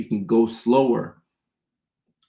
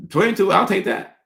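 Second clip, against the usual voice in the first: excited high reaction; 9 semitones higher, 4 dB louder than usual. Real, not acted. Reacting to a donation.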